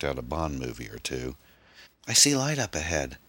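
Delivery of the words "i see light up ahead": high-pitched, hopeful call; excited cry. A narrator's reading. Passenger spotting the tunnel's end, crying out excitedly. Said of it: "the girl cried".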